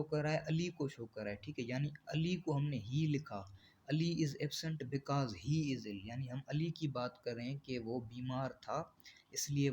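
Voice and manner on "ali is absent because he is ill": very slow, word-by-word reading of the definition; slow dictation. Shown as a demonstration. Teacher dictating a definition to the class, very slow and even. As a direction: spell the definition out slowly for students to copy. Dictates example sentence slowly.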